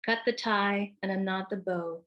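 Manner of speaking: measured, deliberate poem recital, pausing between lines; poetry reading. Acted. Poet reads her Dickinson-inspired poem to an audience, measured recital.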